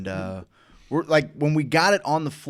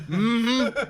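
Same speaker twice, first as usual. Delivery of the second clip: mock high-pitched mm-hmm; high tight hum; 9 semitones higher than usual. Salesman about to bolt from his client, high hum. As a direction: squeak out a closed-mouth excuse. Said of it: "I just go like this".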